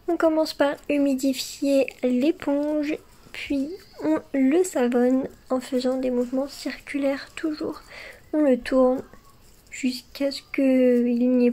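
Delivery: breathy ASMR instructions, close-mic; ASMR whisper. Acted. Whispered sponge cleaning steps. (chuchotement ASMR doux)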